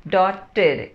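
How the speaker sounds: डॉटेड with the ending said as id. Shown as a demonstration. Teacher showing students the id sound in डॉटेड. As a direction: say डॉटेड with a clear id at the end. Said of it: "इस तरह से इसका pronunciation होगा".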